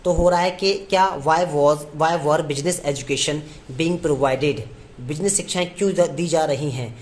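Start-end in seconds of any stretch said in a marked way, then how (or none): 1.2-4.6 slow, word-by-word dictation. Shown as a demonstration. Teacher dictating the sentence to students, slowly. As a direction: spell it out word by word for the class. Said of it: "dictating the sentence".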